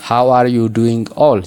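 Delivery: "How are you doing all" with every word sounded in full; unreduced pronunciation. Shown as a demonstration. Teacher showing how natives don't say it, each word full. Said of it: "jedhanii pronounce hin godhani".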